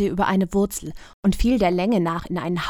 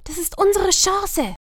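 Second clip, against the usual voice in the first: higher, admitting a little fear; sheepish girl; 11 semitones higher, 4 dB louder than usual. A narrator's reading. Lumina admitting she is a bit scared, higher. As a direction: own up with a nervous laugh.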